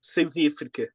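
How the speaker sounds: a brief half-hearted Johannesburg accent on the place names. Shown as a demonstration. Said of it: "the only thing I can say with a Johannesburg accent".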